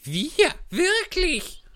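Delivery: high squeaky mouse voice, outraged; indignant mouse. Acted. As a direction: squeak it out like an offended little mouse. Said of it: "entgegnete die Maus, die bis zur Schwanzspitze zitterte".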